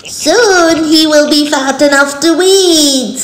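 high, loud witch voice; old hag. A narrator's reading. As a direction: gloat like a wicked witch. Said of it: "said the witch".

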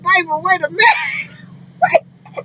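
slow, high call, half yelling; calling back across the store, delighted; excited call back. Retold or imitated. Answering the fan across the truck stop, excited. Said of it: "I was like".

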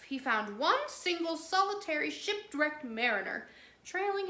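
lively, sing-song read-aloud voice; storybook narration. A narrator's reading. Miss Emily reading Kipling to children, lively storytelling.

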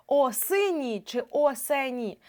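slow demo. Shown as a demonstration. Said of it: "Наведу ще приклади".

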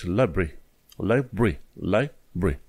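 "library" in two syllables, "lie-bree"; correct reduced pronunciation. Shown as a demonstration. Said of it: "zici library". ("library" scurtat, "lai-bri")

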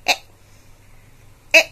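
short "e" as in pen, said twice; teacher models short e; short e sound. Shown as a demonstration. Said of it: "It is pronounced as".

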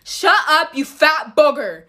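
mild mock yell; groggy snap at a brother, played light; retold half-awake yell. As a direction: punch it out like an irritated sibling. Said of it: "I straight up yelled".

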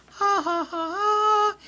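high, real burst of laughter; laughing. Real, not acted. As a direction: crack up mid-sentence, slowly. Laughs at his own joke.

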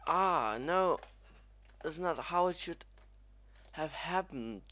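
high, loud cry easing off; dismayed protest. Real, not acted. Gamer whose run went wrong, dismayed whine.

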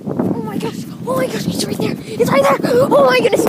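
high, loud panic; panicked screaming. Real, not acted. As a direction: shriek in real terror. Groundhog right there, panicking.

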